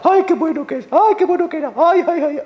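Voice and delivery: mock keening, high and loud; mock lament. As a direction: wail the praises like a paid weeper. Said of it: "Y lloraba".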